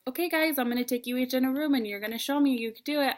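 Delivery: lightly imitated nurse instructions; nurse addressing class. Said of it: "And then the nurse goes".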